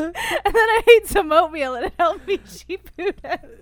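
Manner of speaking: mock Texas voice. Continuing the Texas bit.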